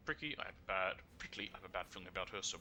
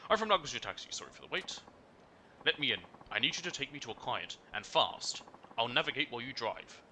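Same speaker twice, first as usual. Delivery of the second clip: lightly voiced urgent client; hurried taxi passenger; 4 semitones higher than usual. Reading a passenger demanding a fast taxi ride, lightly hurried. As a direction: rush the driver along, brisk.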